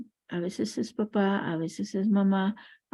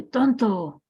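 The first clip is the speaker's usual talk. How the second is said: echo; 2 semitones higher, 5 dB louder than usual. Retold or imitated. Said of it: "escucha que el eco dice".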